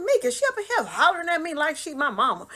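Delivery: high, loud, laughing protest; indignant complaint. Retold or imitated. Telling family sister is hollering, laughing complaint. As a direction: complain loudly through laughter.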